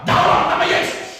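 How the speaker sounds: loud, slow, breathy intense command; firm forceful declaration. Retold or imitated. Woman at the till commands the robber, loud and slow. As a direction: hurl the words at the robber. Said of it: "semakin kuat dan semakin tegas".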